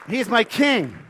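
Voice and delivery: slow, laughing, high and joyful; slowed laughing repeat of the praise. Real, not acted. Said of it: "You can clap for that".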